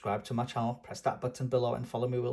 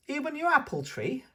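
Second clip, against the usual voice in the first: put-on high, eager little-girl question; squeaky child pointing at the tree; Peppa's voice; 12 semitones higher than usual. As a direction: Peppa asking grandpa in a high voice. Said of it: "she asks".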